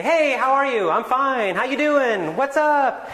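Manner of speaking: high, loud, breezy casual greeting; casual real English. Shown as a demonstration. A teacher shows how real speakers greet, breezy and loud. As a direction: toss it off like a friend on the street. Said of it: "They say".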